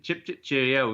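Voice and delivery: light mock English accent; jokey stock English accent demo. Shown as a demonstration. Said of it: "is my English accent".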